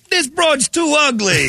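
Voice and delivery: high, slow mock Italian accent; hammed-up Italian accent producer; fake Italian accent. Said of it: "I was speaking Italian".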